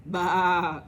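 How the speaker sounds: loud bleating baa; mock sheep baa. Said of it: "said the sheep".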